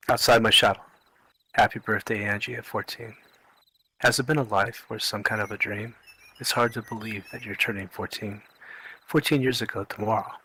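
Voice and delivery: measured birthday verse recitation; poem reading. Acted. Father reads a poem for his daughter turning fourteen, recited. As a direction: read it line by line as verse.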